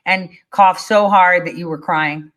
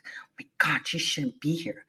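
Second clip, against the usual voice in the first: hushed, softer mock-whisper; mocking a scared Karen; 3 semitones lower, 13 dB quieter than usual. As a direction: play the fearful shopper under her breath. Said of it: "one masked Karen lady goes".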